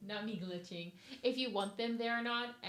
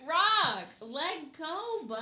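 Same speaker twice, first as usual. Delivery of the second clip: loud, higher call to the dog; 6 semitones higher, 8 dB louder, much slower than usual. Real, not acted. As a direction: snap the dog off its toy. Calling dog off toy.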